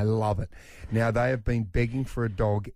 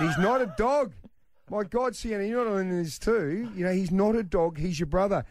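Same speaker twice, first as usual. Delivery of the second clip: higher, laughing disbelief through a protest; exasperated dad; 8 semitones higher than usual. Retold or imitated. Dad telling daughter her brother is not a dog, higher laughing exasperation. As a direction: protest half laughing, half despairing.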